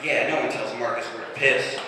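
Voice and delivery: mock badass. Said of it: "I felt really badass".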